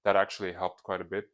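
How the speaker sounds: nose stuffed with tissue, blocked; tissue up one nostril. Real, not acted. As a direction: talk through a paper-plugged nose. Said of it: "so I stuffed, uh, toilet paper up my nose".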